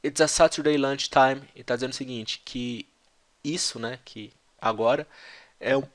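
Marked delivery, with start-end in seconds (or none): 0.0-1.4 the a in "Saturday" open and long, British style; British take of "It's a Saturday lunchtime" with an open a; British accent. Shown as a demonstration. Teacher showing students the British pronunciation. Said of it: "Então o A é aberto".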